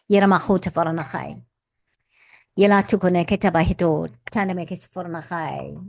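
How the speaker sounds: even, rhythmic chant of invented syllables; channelled light language. Acted. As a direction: intone it like a channelled blessing. Light language after invocation.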